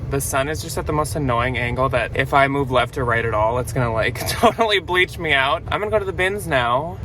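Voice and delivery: breathless after the gym; winded, catching breath between words. Real, not acted. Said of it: "I'm out of breath".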